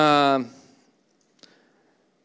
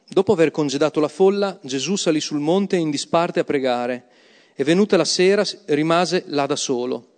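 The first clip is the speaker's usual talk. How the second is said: measured, solemn Bible reading; proclaiming the passage aloud; scripture reading. Acted. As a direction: read the Gospel to the congregation with weight. Reads the Gospel passage aloud.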